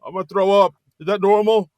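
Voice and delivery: loud, high hammed-up pain cries; pained groaning. Villain punched once.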